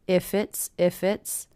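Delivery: "If it's" connected as one word; no gap between "If" and "it's"; linked words. Shown as a demonstration. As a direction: carry the F of "If" onto "it's". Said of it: "hear those connecting together".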